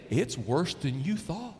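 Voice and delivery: ordinary talk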